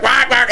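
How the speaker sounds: quick duck quacks; mimicked squawking; imitated crazed duck. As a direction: quack like a duck going crazy. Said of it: "this duck's going crazy".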